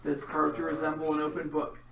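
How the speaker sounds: dramatic game master narration; story narration. A narrator's reading. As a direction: set the scene like a storyteller.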